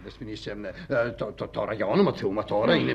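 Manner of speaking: low, soft, faltering stammer; flustered stammer. Acted. Husband caught out before wife and secretary, flustered stammer. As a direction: stumble helplessly over the words.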